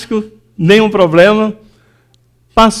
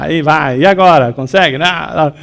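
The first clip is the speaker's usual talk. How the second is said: ordinary talk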